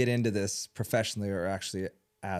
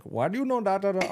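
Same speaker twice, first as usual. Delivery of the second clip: high incredulous quote; 10 semitones higher, 5 dB louder than usual. Retold or imitated. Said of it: "She's like".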